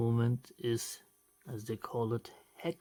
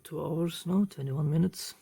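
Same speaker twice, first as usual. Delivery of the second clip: excited; 6 semitones higher, 6 dB louder than usual. Real, not acted. Amazed at his own speed.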